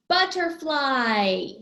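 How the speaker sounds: BUTTERFLY drawn out in one falling glide; word announced whole. Shown as a demonstration. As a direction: stretch BUTTERFLY slowly, running it together. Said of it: "it does have three".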